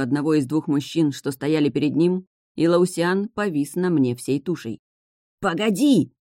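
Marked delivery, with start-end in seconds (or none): 5.4-6.1 higher-pitched cry of alarm; wailed cry. A narrator's reading. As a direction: yelp it out to stop them. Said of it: "завопил он".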